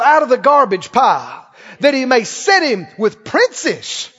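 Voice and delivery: emphatic, rising scripture proclamation; preaching scripture. Acted. Preacher telling how God lifts the needy, fervent preaching. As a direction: drive each verse home from the pulpit.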